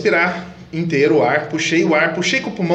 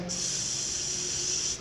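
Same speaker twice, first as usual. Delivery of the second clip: long, soft hiss, no voice; gentle hiss; 14 dB quieter than usual. Shown as a demonstration. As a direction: let the air out slowly hissing. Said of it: "porque você não força a tua voz".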